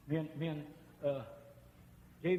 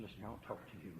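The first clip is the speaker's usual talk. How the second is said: low, very soft opening; gentle approach; 8 semitones lower, 17 dB quieter, faster than usual. Retold or imitated. Preacher retelling quiet words to the grieving mother. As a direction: speak softly to the grieving mother. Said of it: "I said".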